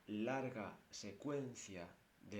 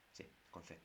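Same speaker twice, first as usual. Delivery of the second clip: whisper; 4 semitones lower, 12 dB quieter than usual. Acted.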